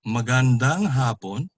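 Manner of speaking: MAGANDANG HAPON with stress on HA of HAPON; first-syllable stress. Shown as a demonstration. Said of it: "is good afternoon".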